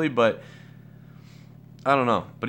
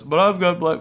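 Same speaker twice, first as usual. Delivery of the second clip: racist guy excuse; 7 semitones higher, 5 dB louder than usual. Retold or imitated. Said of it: "an actual crazy racist guy says".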